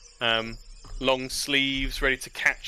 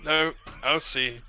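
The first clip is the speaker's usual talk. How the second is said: sleepy lord mumbling; 5 semitones higher than usual. Acted. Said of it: "The Lord snuffles like".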